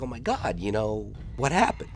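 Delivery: lightly voiced puzzled Rick; baffled kid. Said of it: "He's like".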